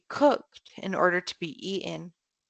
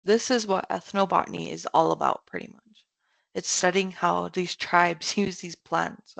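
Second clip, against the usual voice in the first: talking between sips of water; while sipping a drink. Real, not acted. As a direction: mouth near the mic while drinking. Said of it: "Sorry, I'm drinking water right in this mic".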